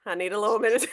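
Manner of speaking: winded after dancing; breathless, catching your breath. Real, not acted. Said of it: "now I'm winded".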